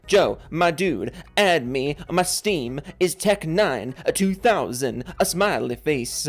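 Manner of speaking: put-on slow, singsong Italian accent; accidental Italian accent. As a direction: drift into a mock Italian lilt, drawing words out. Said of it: "I don't know why I turned Italian there".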